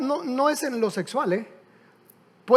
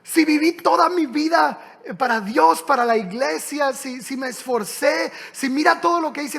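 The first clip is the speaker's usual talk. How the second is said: higher, indignant protest; 3 semitones higher than usual. Retold or imitated. Indignant Christian protesting to Jesus at heaven's gate. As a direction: huff as if cheated. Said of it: "el cristiano se molesta".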